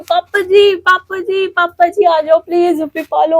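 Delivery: a mild echo of calling out while weeping; retold crying call. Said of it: "और मैं चिल्ला रही हूँ".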